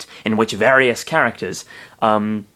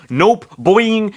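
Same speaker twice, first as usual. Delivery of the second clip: high, bouncy creature voice; cartoon creature; 11 semitones higher, 4 dB louder than usual. A narrator's reading. Narrator voicing Mister Saturn's reply, high and bouncy. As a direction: bounce the pitch way up.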